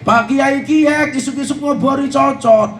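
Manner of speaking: a host in Tegal offering the kiai a cigarette, in Ngapak dialect. Retold or imitated. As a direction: offer a cigarette in broad Ngapak Javanese, laughing. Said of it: "ditawarin rokok dengan bahasa ngapak".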